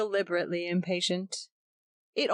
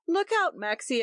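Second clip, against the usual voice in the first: warning cry; 9 semitones higher than usual. A narrator's reading. Nursery chatter upstairs.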